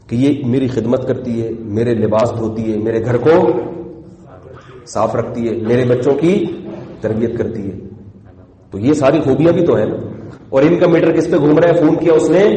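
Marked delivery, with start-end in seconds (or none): 0.1-7.8 low, measured, forbearing listing; calm appreciation. Retold or imitated. Umar explains his wife's good qualities to a man, calm and appreciative. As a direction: list each virtue patiently in a lowered voice.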